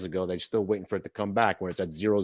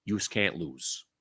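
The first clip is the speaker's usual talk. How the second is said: Chaz Palminteri quote; 4 semitones lower, much slower than usual. Retold or imitated. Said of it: "in the immortal words of Chaz Palminteri".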